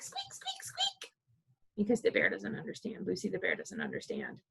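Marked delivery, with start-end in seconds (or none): 0.0-1.1 tiny high squeaks fading to a whisper; squeaking. Acted. Explaining what the bear hears, tiny high squeaks. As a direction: squeak like a little critter. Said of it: "the bear hears squeak".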